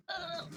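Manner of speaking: muted, high mock cry; half-hearted scream, held well down in volume; imitated scream. Mother retelling second push, muted mock scream. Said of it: "E gritei, com certeza".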